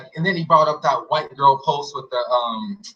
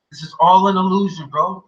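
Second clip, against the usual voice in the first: louder, higher lightly voiced guru insisting; louder preachy guru; 4 semitones higher, 5 dB louder than usual. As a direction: hammer the illusion line louder. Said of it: "He would just be like".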